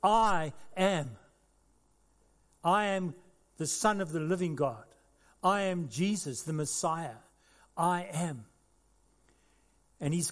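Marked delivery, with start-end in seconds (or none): 0.0-8.5 declaring. Acted. Preacher voicing Jesus to every nation, proclaiming. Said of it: "he declares".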